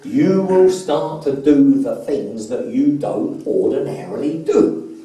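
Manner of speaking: slow, deliberate hypnotist's delivery; hypnotic suggestion. Retold or imitated. Coach slipping a program into client under hypnosis, slow suggestion. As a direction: plant each word slowly, like a suggestion. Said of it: "I kept slipping this little program in".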